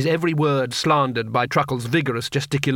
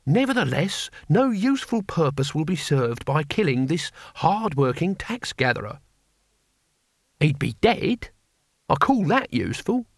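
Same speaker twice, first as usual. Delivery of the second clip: put-on reasonable old man; 3 semitones higher than usual. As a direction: calmly talk the others down. Old man pleads sensibly.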